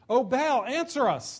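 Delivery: loud, high cry to Baal; shouted plea. Acted. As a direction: call out to Baal at full voice. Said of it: "they shouted".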